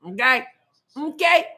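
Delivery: light questioning "Okay?" lifted at the end; Kamala impression. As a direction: toss off a breezy mock Kamala check-in. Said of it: "I'm doing my Kamala impression".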